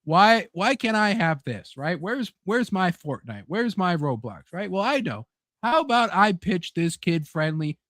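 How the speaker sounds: a hint of a greedy boss; mock corporate executive. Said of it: "it's like".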